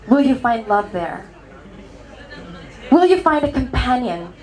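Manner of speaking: acted wistful concern; mock tenderness. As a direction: ask it tenderly, with pauses to let it land. Imagined tender question from best friend.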